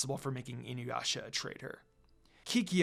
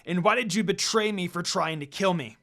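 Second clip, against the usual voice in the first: furious; 2 semitones higher, 4 dB louder than usual. Acted. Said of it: "Inuyasha growled furiously".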